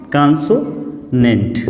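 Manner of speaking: "कॉन्सोनेंट" said slowly, syllable by syllable; slow repeat. Shown as a demonstration. Teacher repeating the term slowly for students. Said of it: "twenty one को हम क्या बोलते हैं?".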